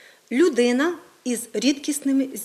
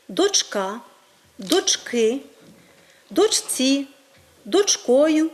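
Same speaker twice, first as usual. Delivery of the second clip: дочКА, дочКИ, дочЦІ, дочКОю; stress on second syllable; much slower than usual. Shown as a demonstration. Teacher listing correct forms, stress on the second syllable. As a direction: push the beat onto the second syllable each time. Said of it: "має наголос на другому складі".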